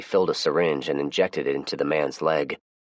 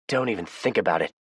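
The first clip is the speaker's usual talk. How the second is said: threatening; 4 semitones higher than usual. Acted. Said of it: "she threatened".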